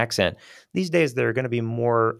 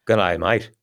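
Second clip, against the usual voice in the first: Australian accent; 2 semitones lower than usual. Shown as a demonstration.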